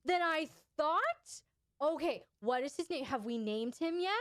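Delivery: high, gushing and delighted, with a gasp; match the little's giddy energy; mirrored excitement. Shown as a demonstration. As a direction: caregiver gushing over the little's new stuffy, high and delighted. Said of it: "mirror that energy".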